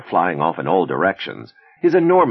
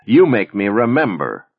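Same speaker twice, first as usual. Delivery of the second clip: high, emphatic melodrama; loud, raised dramatic declaration; melodramatic; 5 semitones higher, 6 dB louder than usual. A narrator's reading. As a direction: lift it into a theatrical upper octave. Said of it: "Her voice slipping into the octave she normally reserved for melodrama".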